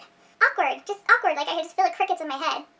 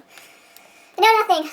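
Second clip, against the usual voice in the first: slow, drawn-out dramatic lament; hammed-up hopelessness; mock despair; 4 semitones higher, 4 dB louder, much slower than usual. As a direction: play it tragic.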